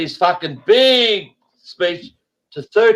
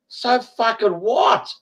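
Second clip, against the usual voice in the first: slow, higher scornful question; dismissive; 5 semitones higher, slower than usual. Real, not acted. Guest shrugging off a nurse's positive test, dismissive. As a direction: drag it out, unimpressed.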